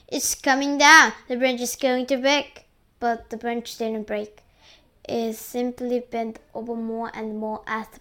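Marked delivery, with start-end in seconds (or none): 0.1-2.7 loud, raised alarm; shouted warning. A narrator's reading. An aunt warns the branch is going to break, shouted. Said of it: "and Spike shouted".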